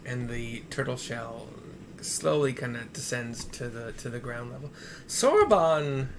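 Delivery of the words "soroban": slow, loud delighted call; excited shout. Real, not acted. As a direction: shout his name in awe. Greets the transformed character.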